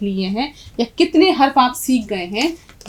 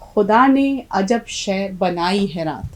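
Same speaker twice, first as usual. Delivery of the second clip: slow poem recitation; 4 dB louder, slower than usual. Shown as a demonstration. Teacher reciting the couplet once more for the students, slow and declaiming. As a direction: declaim the couplet to close the lesson. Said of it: "तो अब देखिए".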